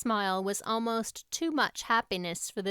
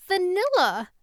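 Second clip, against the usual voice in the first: put-on mortified girl; 9 semitones higher, 7 dB louder than usual. Anne answers, mortified.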